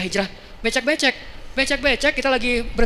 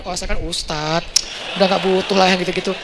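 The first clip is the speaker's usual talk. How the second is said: mock self-importance; 4 semitones lower than usual. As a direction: act full of yourself, dragging the words. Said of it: "nggak boleh terlalu sok kegeeran".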